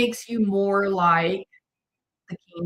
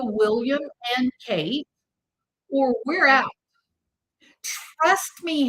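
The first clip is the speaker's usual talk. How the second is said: giving an ultimatum; 2 semitones higher than usual. Retold or imitated. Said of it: "she issued an ultimatum".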